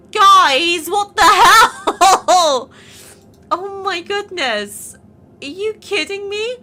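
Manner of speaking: high, loud, laughing shock; a squealing, giggly what-the-hell; stunned disbelief. Real, not acted. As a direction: blurt it out, floored by the numbers. Shocked at her audience numbers.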